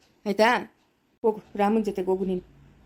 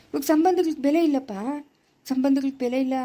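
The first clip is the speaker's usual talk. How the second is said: emphatic; 5 semitones higher than usual. Acted. Elder drives home a bitter truth.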